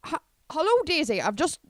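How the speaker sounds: a hint of a dithery Ballymena woman; mild Ballymena accent, confused. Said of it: "a confused Ballymena woman".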